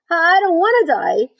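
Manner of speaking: high, loud, drawn-out whine; tearful moan. A narrator's reading. Wilbur bursts into tears at the news, moaning. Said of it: "he moaned".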